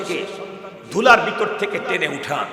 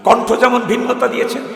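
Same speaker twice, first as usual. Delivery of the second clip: normal talking voice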